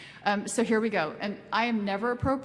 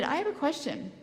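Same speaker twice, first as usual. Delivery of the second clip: put-on child's voice; 9 semitones higher than usual. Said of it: "And he said".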